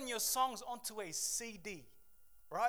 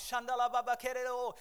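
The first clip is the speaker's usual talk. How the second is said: mock tongues; 2 semitones higher, 3 dB louder, faster than usual. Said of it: "came out speaking in tongues".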